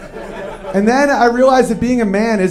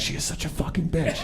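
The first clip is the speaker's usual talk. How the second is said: a mock catty aside under the breath, much softer; hissed aside; 3 semitones lower, 13 dB quieter than usual. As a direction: lean in and hiss it quietly to your husband. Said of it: "And your wife's like".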